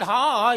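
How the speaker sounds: loud, drawn-out "aah"; imitated shout. Preacher retells the lady patient crying out, loud imitated shout. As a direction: act out the patient's cry at full voice. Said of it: "When she shouted".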